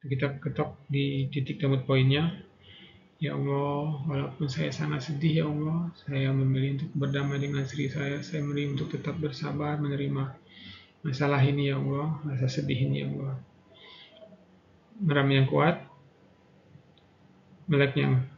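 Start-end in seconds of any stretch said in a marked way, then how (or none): 3.2-13.3 guided affirmation. Acted. Leads tapping affirmation.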